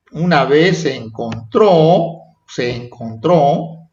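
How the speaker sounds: "encontró" slowed, leaning on the final O; stress on final syllable. Shown as a demonstration. Teacher showing pupils past-tense verbs, stress on the O of "encontró". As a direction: draw out the last O of "encontró". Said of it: "acento a la O".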